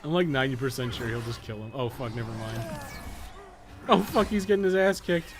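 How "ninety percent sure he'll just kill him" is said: normal talking voice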